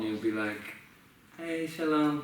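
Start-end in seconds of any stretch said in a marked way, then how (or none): 1.4-2.2 upbeat put-on Ashkenazi Hebrew greeting; a light Ashkenazi-style shalom, pitched up; Ashkenazi accent. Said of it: "talking like an Ashkenazi person".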